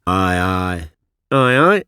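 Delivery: a nervous schoolboy stuttering; mock stutter. Schoolboy stuttering before his teacher. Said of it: "stutter a Demosthenes".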